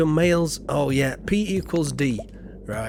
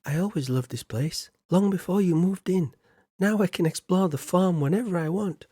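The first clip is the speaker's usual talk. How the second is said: a hint of a girl's voice, higher; lightly voiced Abigail; 5 semitones higher than usual. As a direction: read her lines a bit higher, lightly acted. Reads Abigail's game dialogue.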